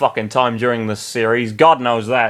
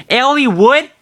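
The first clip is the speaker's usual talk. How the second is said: higher, questioning cry; surprised call; 13 semitones higher, 5 dB louder than usual. Acted. Lynn questions Eliwood, high surprised call. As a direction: call his name in disbelief.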